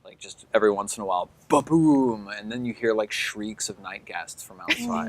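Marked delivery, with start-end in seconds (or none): 1.5-2.3 "boom" drawn out like an explosion; imitated explosion. Game master sounding out explosions across the waterfront, booming imitation. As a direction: voice a booming blast.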